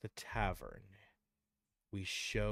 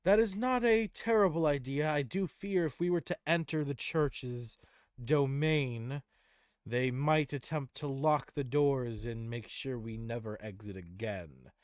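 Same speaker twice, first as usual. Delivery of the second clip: higher, louder measured counsel; Tyrael's voice; 4 semitones higher, 7 dB louder than usual. Acted. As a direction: weigh the plan gravely. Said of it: "Tyrael would say".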